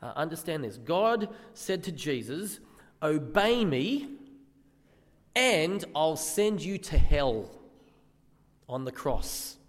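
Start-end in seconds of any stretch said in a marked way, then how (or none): 3.0-7.5 slow, weighty divine command; stern voice of God. Acted. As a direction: speak it slowly as God, grave and firm. God addressed Jesus in retold scene.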